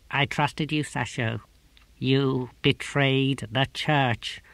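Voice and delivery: slow, unvoiced whisper to the prisoner; cold whispered inquisitor. A narrator's reading. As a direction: inquisitor whispering to a tortured man.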